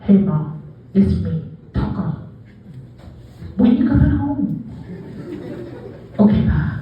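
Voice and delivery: a lightly lisped dog leaving a message; lisping dog voice. Retold or imitated. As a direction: play the dog calling mom, slight lisp. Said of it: "my dog has a lisp".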